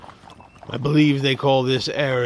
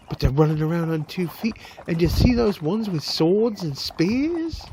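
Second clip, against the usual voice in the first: high, jittery cart driver voice; a rattled wagon driver frets about lost bags; nervous carter; 5 semitones higher than usual. Acted. Carter complaining about the lizard raiders.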